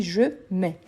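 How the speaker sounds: "je mets" ending on an open eh, no t or s; silent T S. Shown as a demonstration. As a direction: leave the end of "mets" silent. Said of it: "Je ne prononce pas le T S". (« je mets » sans prononcer le t ni le s)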